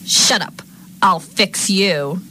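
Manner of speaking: loud, high threat, drawn out at the end; mean yell. Acted. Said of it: "yell at me".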